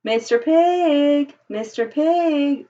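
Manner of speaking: stretched, drawn-out call at the door; wolf calling slowly to the pig at the door. Acted. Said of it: "I called".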